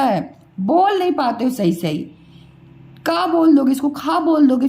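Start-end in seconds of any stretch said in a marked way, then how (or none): 3.1-3.3 का with a long open aa; wrong long vowel. Shown as a demonstration. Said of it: "फिर गलत हो जाएगा". 3.9-4.2 खा with a long open aa; wrong long vowel. Shown as a demonstration. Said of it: "फिर गलत हो जाएगा".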